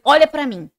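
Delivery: mildly forceful retold demand for attention; insistent, earnest. Teen urging a sick girl at the clinic, insistent. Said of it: "falava assim com, com vontade mesmo".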